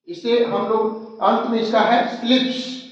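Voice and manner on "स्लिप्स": "स्लिप्स" ending in a voiceless s; hissed S ending. Shown as a demonstration. Teacher demonstrates plural S, "स्लिप्स" ending in a voiceless s. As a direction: finish "स्लिप्स" on a clean "sss". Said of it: "इसमें हम एस का स sound देंगे".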